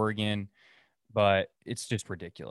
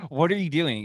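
a bit louder, more insistent; louder confused customer; 5 semitones higher, 4 dB louder than usual. Retold or imitated. Customer still spinning, mock exasperated. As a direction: demand it this time. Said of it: "Finally, he's all".

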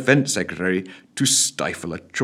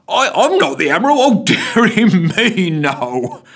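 jolly constable; 10 semitones higher, 5 dB louder than usual. A narrator's reading. Jovial constable laughing.

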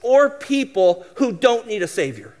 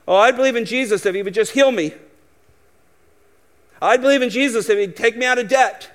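self-centered bargaining; 3 semitones higher, faster than usual. Retold or imitated. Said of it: "See how self-centered that is".

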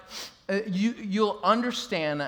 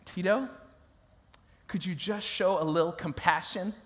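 soft, low appeal as a parent; imitated parent; 4 semitones lower, 7 dB quieter than usual. Parents asking son for compassion, imitated softly. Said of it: "My parents would say".

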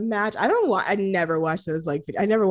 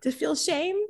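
laughing protest; 8 semitones higher than usual. Pretend.

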